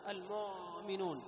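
slow المؤمنون, the sound carried through the hamza; wrongly stretched hamza. Shown as a demonstration. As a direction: let the hamza in المؤمنون drag instead of stopping. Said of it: "لا".

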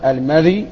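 "المذي" with a still dhal and light ya; إسكان الذال. Shown as a demonstration. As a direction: say "المذي" as al-MADH-y, no vowel after the dhal. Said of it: "فإنه بفتح الميم وإسكان الذال المعجمة وتخفيف الياء". (نطق "المذي" بإسكان الذال وتخفيف الياء)

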